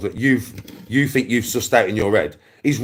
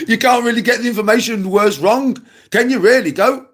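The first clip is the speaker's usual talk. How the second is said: laughing; 9 semitones higher than usual. Real, not acted. Laughs right before.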